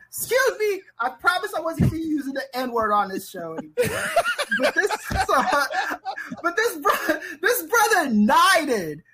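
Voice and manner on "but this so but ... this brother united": high-pitched, laughing incredulity; laughing disbelief. Real, not acted. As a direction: struggle to get it out through laughter.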